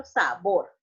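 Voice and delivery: "sabor" with the weight on "bor"; stress on last syllable. Shown as a demonstration. Teacher showing where the stress falls, final-syllable stress on "sabor". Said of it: "Aquí está la mayor fuerza".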